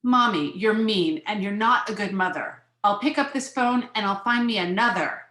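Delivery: mildly acted childish outburst; cross child. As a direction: protest like an offended little girl. Child's angry retort to mother.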